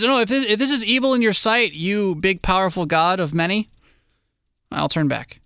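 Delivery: pleading, lightly voiced; mock pleading Balaam.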